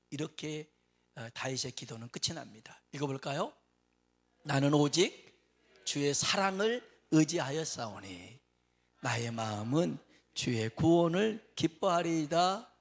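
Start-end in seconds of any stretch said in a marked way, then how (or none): 4.4-12.7 느리고 힘차게 읽는 성경 낭독; 회중 앞에서 장엄하게 낭독; scripture reading. Acted. Scripture read aloud. (느리고 크게 성경을 낭독하듯)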